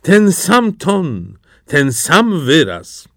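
put-on high, very slow old man's reminiscing; elderly courtier. A narrator's reading. Old courtier moved by the bird's song, drawn-out reminiscing. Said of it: "powiedział pewien starszy dworzanin".

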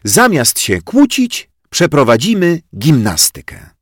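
put-on teacher ordering the children; command. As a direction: call the room to attention. Teacher announces exercise.

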